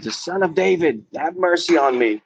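mild mock yell begging for mercy; retold scream. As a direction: re-enact crying out in pitch only. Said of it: "actually started screaming out".

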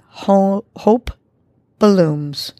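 HOPE lifted, then BLOOMS drawn out and falling; exhaled affirmation. Shown as a demonstration. Host models the phrase to repeat, HOPE then BLOOMS on the exhale. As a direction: breathe out on "hope", pause, "blooms". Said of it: "on the exhale, repeat".

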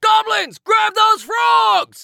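urgent shouted order; panicked shout. Acted. Dragon orders goblins in panic.

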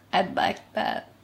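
soft, quiet reply; softly. A narrator's reading. Laurent answers Damon softly. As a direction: say it softly, almost shy. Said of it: "Laurent said softly".

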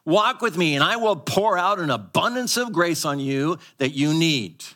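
God's promise. Retold or imitated. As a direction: promise it generously, lifting high. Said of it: "He says".

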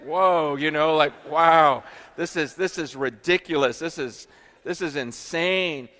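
loud wide-eyed wonder, whoa and wow; awestruck kid. Retold or imitated. Guest hearing persecution stories, loud childlike amazement. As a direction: gasp it out like a kid hearing a wild story. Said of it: "like a little kid just going".

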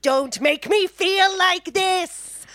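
slow, drawn-out whine; mock his self-pity; mock whiny teen plea; whiny Dawson.

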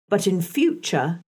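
marked stress on "But in future". A narrator's reading. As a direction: weigh the words "But in future" pointedly. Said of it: "I laid marked stress on the words".

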